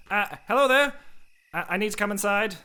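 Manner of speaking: high, bright call to the guards; overly friendly greeting. Acted. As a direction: sing out a cheery hello. Neil hails the guards cheerily.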